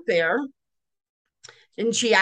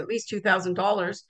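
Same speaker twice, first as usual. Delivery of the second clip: offhand shrug; 2 semitones lower, 5 dB quieter than usual. Retold or imitated. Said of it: "shrugged my shoulders and said".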